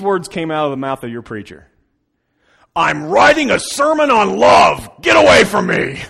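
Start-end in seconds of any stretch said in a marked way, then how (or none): 2.8-6.0 loud, angry yell; angry shout. Retold or imitated. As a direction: yell to drive the kid off. Dad yells at son, retold.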